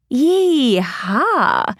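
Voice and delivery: playful cowgirl whoop; mischievous yee-haw. Acted. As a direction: tease it like riding a horse. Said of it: "with her mischievous smile".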